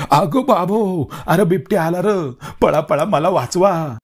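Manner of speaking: panicked high cry for help, slowing on the last words; terrified scream. A narrator's reading. Cowardly Raja sees a leopard and shrieks in terror. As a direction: shriek it like you've seen a leopard. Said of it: "राजानं तर मोठ्यानं किंकाळी फोडली".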